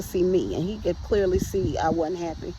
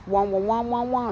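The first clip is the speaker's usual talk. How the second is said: Peanuts teacher wah-wah; 3 semitones higher than usual. Retold or imitated. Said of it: "like the teacher".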